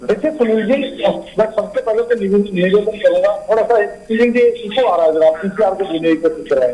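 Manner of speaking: echo. Real, not acted. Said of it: "इको produce हो रहा है".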